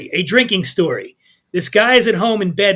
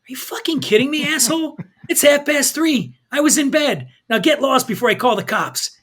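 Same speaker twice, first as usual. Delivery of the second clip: angry; 7 semitones higher than usual. A narrator's reading. Husband yells at drunk stranger.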